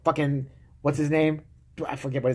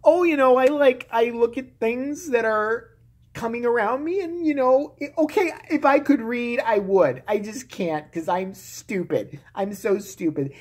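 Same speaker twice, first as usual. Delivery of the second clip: high, slow airheaded drawl; a hammed-up high ditzy politician; ditzy Sarah Palin; 7 semitones higher, slower than usual. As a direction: play her as a fumbling airhead. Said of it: "a book, and it".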